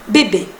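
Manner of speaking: bebé with two identical closed é sounds; short, low, even French bebé; French pronunciation. Shown as a demonstration. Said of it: "las dos E se pronuncian igual".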